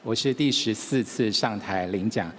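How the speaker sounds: ordinary talk, nothing marked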